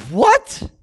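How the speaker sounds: sharp high "What?"; mock surprise. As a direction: jump up in disbelief. Preacher reacting to Goliath's disdain.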